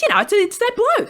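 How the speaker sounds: high, loud, insistent; imitating exasperated dad. Muddled dad explaining to questioning daughter, exasperated. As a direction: grope for the answer, getting impatient.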